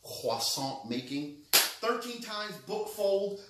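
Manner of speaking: a little show-off French accent. Shown as a demonstration. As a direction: savor it slowly with a light French accent. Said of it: "You didn't know I had that accent".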